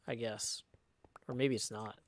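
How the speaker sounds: hushed whispered aside. Acted. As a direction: drop to a whisper. Aside after ghost line.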